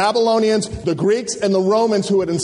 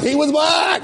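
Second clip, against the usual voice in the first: mock insistent shout; 6 semitones higher than usual. African Americans' view voiced loudly.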